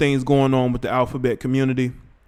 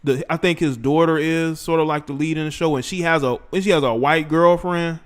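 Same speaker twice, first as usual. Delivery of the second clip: ordinary talk, nothing marked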